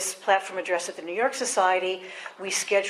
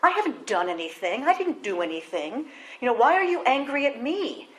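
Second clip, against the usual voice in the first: defensive; 3 semitones higher than usual. Retold or imitated. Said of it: "become very defensive".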